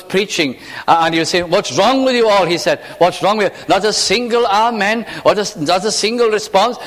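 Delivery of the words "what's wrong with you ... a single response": rebuking preacher. Retold or imitated. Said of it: "he was really rebuking".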